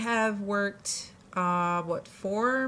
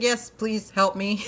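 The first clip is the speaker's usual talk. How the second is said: relieved plea for help; slower than usual. Retold or imitated. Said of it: "She's like".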